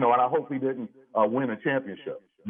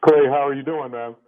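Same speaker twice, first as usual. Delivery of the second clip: radio show caller; 9 dB louder than usual. Real, not acted. Caller on phone line.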